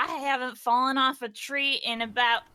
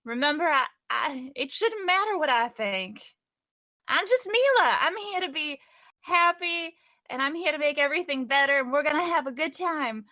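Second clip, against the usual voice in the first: put-on bright, higher, bubbly girl voice; chirpy and eager, pushing to cheer everyone up; Mila in character; 4 semitones higher, faster than usual. Cheerful character urging Patrick to fix camera, high bubbly voice.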